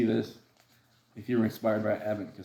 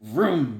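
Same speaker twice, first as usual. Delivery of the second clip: engine noise; 3 dB louder than usual. Acted. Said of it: "The engine revved and roared".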